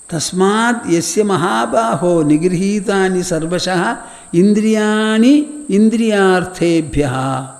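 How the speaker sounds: measured recitation, slowing at the end; sermon verse recitation; recited verse. Shown as a demonstration.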